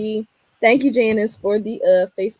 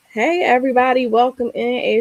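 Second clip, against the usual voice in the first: loud, high, upbeat hello to the audience; bright stream-host welcome, higher and louder; excited greeting; 5 semitones higher, 6 dB louder than usual. Real, not acted. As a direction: welcome everyone with big energy. Host greeting viewers on live.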